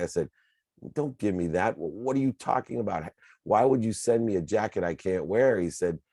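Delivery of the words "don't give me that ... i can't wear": higher-pitched mild exasperation; mock-indignant son, pitch lifted; retold indignant anger. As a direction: retell an angry challenge without raising your voice. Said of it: "to anger and rage".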